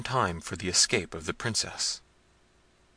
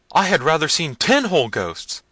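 very high, loud wail; frightened cry; 8 semitones higher, 8 dB louder than usual. A narrator's reading. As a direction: cry it out in panic to your master. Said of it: "cried Diego".

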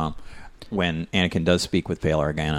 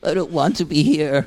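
miserable cartoon animal; 9 semitones higher than usual.

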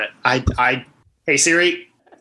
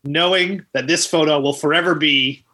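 mock sports commentary. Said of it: "let you do the play-by-play".

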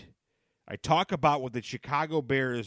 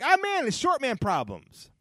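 mock lament; 14 semitones higher, 7 dB louder than usual. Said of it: "I'm like".

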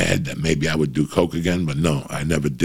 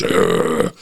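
dog growl. Retold or imitated. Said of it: "the dog goes".

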